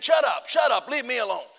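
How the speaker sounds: retold outburst at a heckler; acted exasperation. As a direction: fend off a pestering tormentor. Retold quarrel with the devil.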